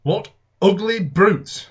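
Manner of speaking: loud, slow, horrified cry; horrified exclamation. Acted. Neighbour gaping at the Martians, slow horrified shout. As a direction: blurt it out in shock at the creatures. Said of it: "he said".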